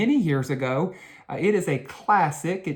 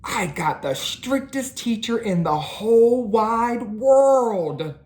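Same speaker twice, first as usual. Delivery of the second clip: grumbled; 7 semitones higher than usual. A narrator's reading. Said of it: "grumbled Arthur".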